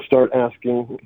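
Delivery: slow, breaking into a helpless laugh; a bitter little laugh through the words; rueful laugh. Real, not acted. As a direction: laugh at the absurdity of it. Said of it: "I guess I'm laughing".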